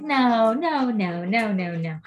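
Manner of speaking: mock stubborn refusal, fading out; refusing denial. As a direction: wave it all off, insistent then trailing. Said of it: "And I was like".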